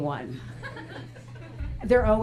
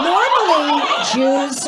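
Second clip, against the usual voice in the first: Normally said higher and louder on the retake; emphatic restart; 5 semitones higher, 6 dB louder, slower than usual. Shown as a demonstration. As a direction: restart the word Normally with a big lift. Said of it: "hold on".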